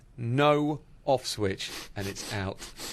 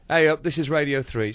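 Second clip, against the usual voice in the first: put-on northern accent; 5 dB louder than usual. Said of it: "voice with that lovely accent kicked in and said".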